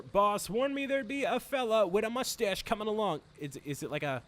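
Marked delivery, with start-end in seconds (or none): 0.0-3.2 put-on higher-pitched, unsure take on an Irish accent; put-on Irish henchman voice; attempted Irish accent. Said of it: "is that an Irish accent".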